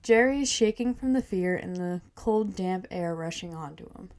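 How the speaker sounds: measured reading of a story; first-person tale, evenly told; story narration. A narrator's reading. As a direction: read it aloud like a storyteller. Reads her story aloud.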